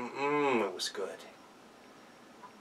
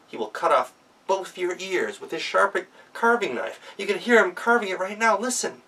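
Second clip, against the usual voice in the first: higher, hesitant, conspiratorial; nervous warning; 6 semitones higher than usual. Acted. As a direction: Gretel warns the guest the master is crazy, nervously. Gretel warns guest conspiratorially.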